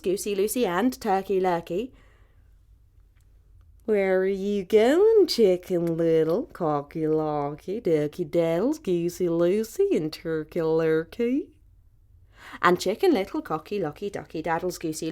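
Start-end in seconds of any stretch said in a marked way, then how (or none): 3.9-11.5 slow, sly fox voice. Acted. Fox slyly greeting the birds on the road, slow and smooth. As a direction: draw each name out slowly, like bait.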